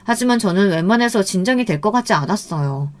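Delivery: ordinary delivery, nothing marked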